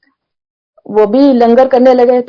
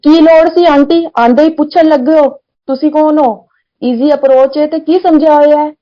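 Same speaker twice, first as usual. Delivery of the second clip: higher, sharp mock scolding in Punjabi; retold scolding; 4 semitones higher than usual. Sevadar scolding the auntie at langar, mock angry. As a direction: imitate the sevadar telling her off. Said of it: "बहुत तेज डांटा".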